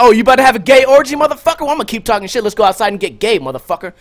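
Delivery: high, loud, quick goading comeback; mock taunting. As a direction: egg him on, pitched right up. Acted taunt back at the opponent.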